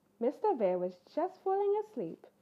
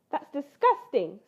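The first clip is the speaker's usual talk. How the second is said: slow, louder grossed-out little bear; slow, louder disgusted cub; 3 semitones higher, 8 dB louder than usual. Acted. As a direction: drag out the yuck like a cub. Cub reacts to raw fish.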